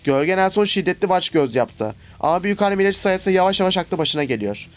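lightly voiced reading of game lines; reading game dialogue. Gamer reads the cutscene text to viewers, lightly voiced. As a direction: read the cutscene aloud for viewers.

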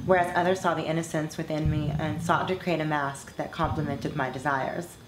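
measured, earnest read of a personal essay; composed monologue reading. Acted. Former performer reading her reflections on dating to fans, composed monologue. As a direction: read it as a composed confession, evenly and deliberately. Reads own written monologue over music.

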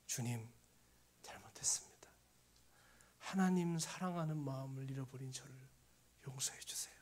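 retold repentance, low and subdued; imitated humbled prayer; tearful confession. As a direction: confess softly, as if through tears. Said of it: "울면서".

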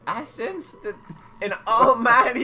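character voice. Acted. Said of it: "forget the voice you were doing".

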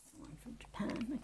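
hushed aside; a secret little whisper aside. Real, not acted. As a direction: whisper it to yourself.

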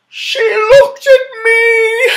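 high, loud, slow cry of joy; excited cry. Acted. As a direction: shout it out thrilled. Girl cries out excitedly.

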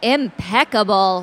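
loud, slow British pronouncement; mock-grand British accent. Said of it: "you can all do a British accent".

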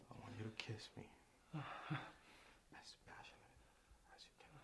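slow, soft seductive whisper. Acted. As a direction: coax him closely.

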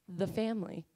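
mafia-style family. Pretend. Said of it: "It kinda sounds like mafia".

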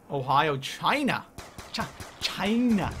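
mock Trump, stretched out slowly; failed Trump voice. Streamer tries Trump reading chat's place names, lightly voiced. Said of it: "I can't do it like Trump".

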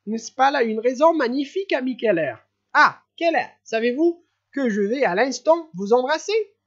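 overjoyed host inviting everyone; giddy laughing prince. Acted. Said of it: "en éclatant de rire".

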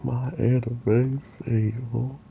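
hoarse, strained voice that hurts; talking through pain, quietly; with a sore jaw. Real, not acted. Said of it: "it really hurts to talk right now".

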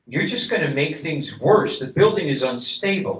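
urgent warning. A narrator's reading. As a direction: warn him off, insistent.

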